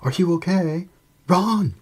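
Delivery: loud, high worried call; shouting. A narrator's reading. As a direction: shout his name urgently. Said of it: "he shouted".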